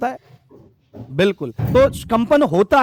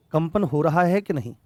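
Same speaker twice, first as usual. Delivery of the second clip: ordinary talk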